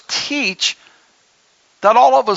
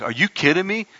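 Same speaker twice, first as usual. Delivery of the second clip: mock incredulous viewer; 5 semitones lower, 4 dB quieter than usual. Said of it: "Anybody watching's like".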